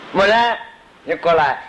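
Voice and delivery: calls the name out high, then beckons; a teacher calling a student over; calling a pupil. Retold or imitated.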